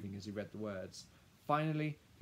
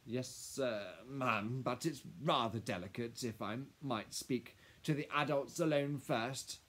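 slightly raised, faltering, deferential voice; hesitant lawyer; 3 semitones higher, 5 dB louder, slower than usual. Acted. Lawyer asking Madame to exclude the child, hesitant. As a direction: hedge politely around a delicate matter.

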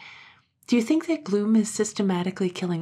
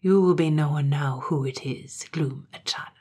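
hoarse voice; 2 semitones lower than usual. Acted. Shamish revealing himself to his brother, hoarse and ghostly. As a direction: ghostly voice trailing to a whisper. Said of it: "a hoarse voice came out of the dark".

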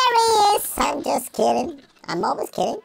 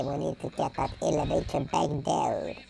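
soft unvoiced whisper; 9 semitones lower, 11 dB quieter than usual. Real, not acted. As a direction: sneak the words out under your breath. Sneaking near the neighbor.

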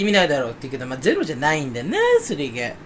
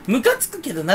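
mildly insinuating, slightly raised pitch; hint at more behind the words; 含みを持たせて; 4 semitones higher than usual. Retold or imitated. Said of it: "含みを持たせるのやめましょう". (少し高めに、含みのある言い方で)

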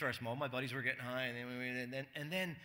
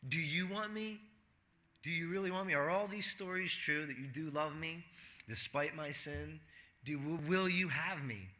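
pleading sinner; 3 dB quieter than usual. Acted. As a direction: ask as if afraid of the answer.

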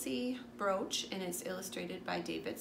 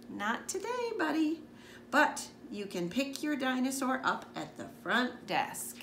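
high, sing-song nurse voice; lightly voiced cheerful nurse; kindly nurse; 5 semitones higher than usual. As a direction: let the little boy down gently.

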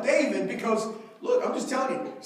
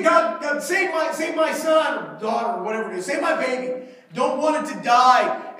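desperate plea; 4 dB louder than usual. Acted. David begging God for child.

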